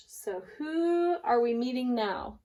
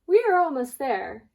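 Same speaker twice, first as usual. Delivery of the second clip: sly fox; 4 semitones higher, 8 dB louder than usual. Acted. Fox leads birds along.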